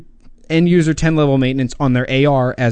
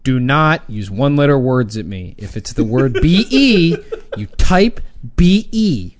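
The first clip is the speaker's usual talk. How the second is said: mock grammar rant. Real, not acted. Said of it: "that's my Grammar Media rant".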